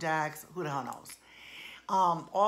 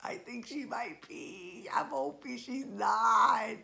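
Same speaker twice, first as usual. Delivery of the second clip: laughing dread; 5 semitones higher, slower than usual. Real, not acted. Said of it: "she's gonna be a bridezilla".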